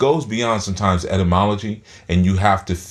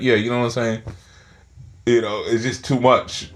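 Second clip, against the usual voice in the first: words pushed out through barely parted teeth, a bit higher; talking through teeth; 4 semitones higher than usual. Shown as a demonstration. Teacher shows students how she talks through her teeth. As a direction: keep the jaw nearly shut and mumble it through big teeth. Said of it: "so we tend to talk like this".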